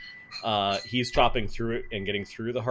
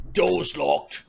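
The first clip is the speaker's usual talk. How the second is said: gruff Cockney guard voice; clipped Cockney, a touch higher; Cockney accent; 3 semitones higher, 3 dB louder than usual. Acted. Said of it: "Hopefully I'm getting his Cockney accent proper".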